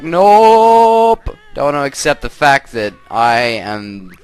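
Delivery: starts with a high, loud nope, then a lightly put-on, slow girlish voice; hammed-up outraged kid sister; a light comic girl voice in denial; mock girl voice. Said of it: "And then she's like".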